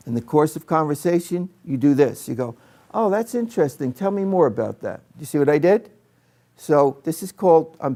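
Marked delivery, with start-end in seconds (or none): 2.9-5.0 interested listener. Shown as a demonstration.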